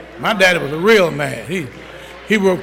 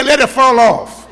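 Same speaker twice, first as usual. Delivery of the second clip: stern daddy; 4 semitones higher, 3 dB louder than usual. Retold or imitated. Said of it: "but Daddy, he didn't care".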